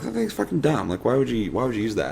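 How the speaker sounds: scornful. Retold or imitated. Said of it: "at first I was like".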